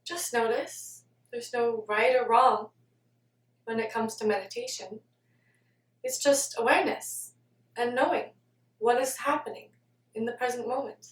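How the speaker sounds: soft, measured meditation voice; guided meditation. Acted. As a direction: guide listeners gently, pausing between phrases. Leads a meditation.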